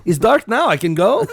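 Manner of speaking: put-on high laughing Russian accent. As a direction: giggle through a Russian accent. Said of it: "doing Russian accents".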